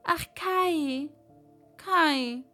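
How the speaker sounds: seufzen. Acted. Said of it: "seufzte Gerda".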